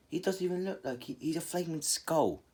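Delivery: startled high voice. Retold or imitated. Jiraiya gaping at Naruto the flaming skull, startled high squeak. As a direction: shriek it out in disbelief.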